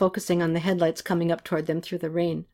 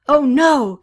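loud, higher exclamation; acted dismay, pitched up; alarmed cry; 7 semitones higher, 7 dB louder than usual. A narrator's reading. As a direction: cry out at seeing someone hit. Katy sees the gunner fall.

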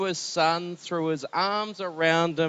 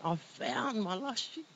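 happy shepherd; 5 semitones higher, 8 dB quieter than usual. Acted.

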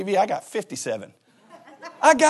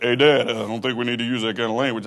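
son Luke; 7 semitones lower than usual. Retold or imitated. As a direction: play the sensible son correcting his dad. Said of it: "Luke was like".

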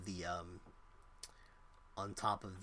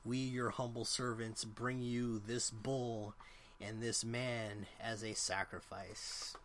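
cult leader's offering; slower than usual. Acted. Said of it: "deviates from his repetition".

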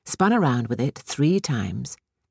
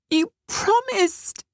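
high, slow and hurt; a child reminding of a promise; pleading little girl voice; much slower than usual. A narrator's reading. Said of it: "she began".

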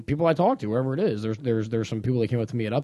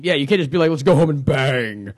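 Gatch impression; 3 dB louder than usual. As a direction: drag out the line like a buddy. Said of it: "That's my Gatch impression".

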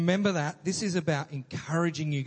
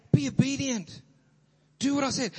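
stern command; 8 semitones higher than usual. Retold or imitated. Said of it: "encouraging way to say".

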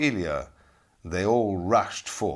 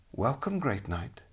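soft, lighter welcoming lady; gentle lady voice; 3 semitones higher, 5 dB quieter than usual. Acted. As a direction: lure him in softly. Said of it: "she said".

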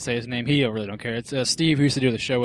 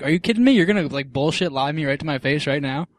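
indignant disbelief; 2 semitones higher than usual. Retold or imitated. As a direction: call out the lie to her face. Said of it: "And I was like".

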